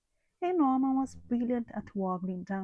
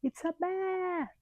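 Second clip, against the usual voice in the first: high, slow, hushed fright; frightened cry; 10 semitones higher, slower than usual. A narrator's reading. Bees spotting the bear at night, scared. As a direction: breathe it out in dread. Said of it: "they cried".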